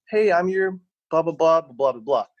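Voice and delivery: lightly parodied waiter greeting; mock server spiel. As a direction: rattle off a bored server intro. Mocking an official server greet.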